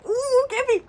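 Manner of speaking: high, loud delighted whoop; excited fangirling. Real, not acted. Fan spotting Kevin in the album, excited whoop. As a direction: pitch it up, swooping on the ooh.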